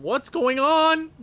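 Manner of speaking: drawn out in shock, pitch way up; stunned high outcry. Real, not acted. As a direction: ask it slowly in disbelief, climbing high. Shocked at opponent goal.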